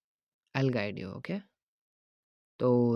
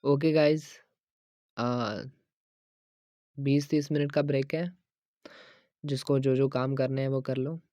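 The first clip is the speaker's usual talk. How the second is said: louder announcement voice; calling out to the room; 5 dB louder than usual. Acted. Trainer calling out to the whole gym about the break. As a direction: project it across the gym floor.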